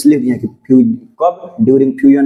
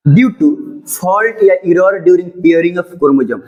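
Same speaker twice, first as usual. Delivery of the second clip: slow dictation; much slower than usual. Acted. Teacher dictating notes to the class, slow and deliberate. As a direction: read out word by word, very slowly.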